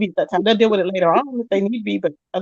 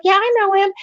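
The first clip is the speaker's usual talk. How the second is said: higher mock ditzy voice; mimicking the girl; 10 semitones higher than usual. Teller mimics the cellmate gossiping, higher ditzy voice. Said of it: "She's like".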